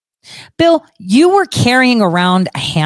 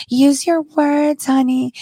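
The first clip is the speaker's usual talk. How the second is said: high, drawn-out mock-sweet mother; coddling mom; 7 semitones higher, slower than usual. Host mocks a mom kneeling to her kid, high coddling sweetness. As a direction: mimic a gentle parent, slow and pitched up. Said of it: "And then the other mom".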